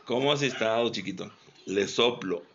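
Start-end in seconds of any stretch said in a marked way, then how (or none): 0.1-1.3 soft and tender. Shown as a demonstration. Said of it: "le hablo suavecito".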